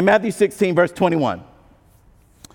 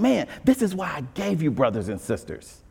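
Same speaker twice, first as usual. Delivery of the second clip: gentle voice of God; 4 semitones lower than usual. Retold or imitated. God reminding the discouraged why he gave brothers, gently. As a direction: speak as God comforting his child. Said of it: "And God is saying".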